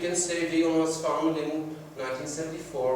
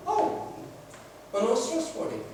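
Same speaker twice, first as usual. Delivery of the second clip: mock convinced; 7 semitones higher than usual. Listener convinced by stories.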